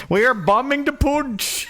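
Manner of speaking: slow, high hammed-up proclamation; mock war announcement. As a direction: proclaim it slowly and grandly. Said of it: "India is apparently bombing".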